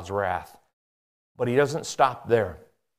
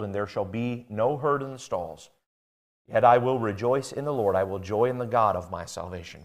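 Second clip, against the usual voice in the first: measured, softening reading; calm declaration of faith; scripture reading; 2 semitones lower than usual. Acted. Reads scripture.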